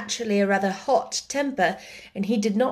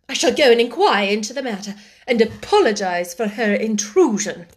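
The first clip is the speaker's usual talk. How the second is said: louder, stiff indignant headmistress; 3 semitones higher, 5 dB louder than usual. Acted. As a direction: fume with offended pride. Miss Minchin fumes.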